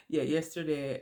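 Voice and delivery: a short real laugh into the words; nervous laugh. Real, not acted. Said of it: "I don't know why I'm laughing".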